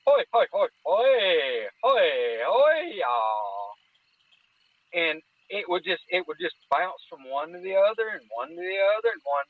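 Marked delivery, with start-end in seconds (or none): 0.1-3.7 imitating creature calls. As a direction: chant the hoi hoi with wild pitch jumps. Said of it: "Like I said, it would go".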